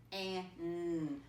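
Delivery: "k, an" split into its sounds; sounding out. Shown as a demonstration. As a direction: sound out "k, an" piece by piece. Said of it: "spelled the way it sounds".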